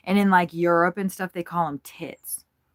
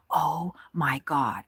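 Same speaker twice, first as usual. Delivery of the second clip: whisper; slower than usual. Real, not acted. Whispering at birds on stream.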